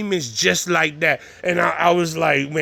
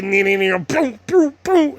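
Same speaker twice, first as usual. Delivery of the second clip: video game noises; 6 semitones higher than usual. Retold or imitated. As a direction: kid making game zaps and booms. Imitating video game sounds.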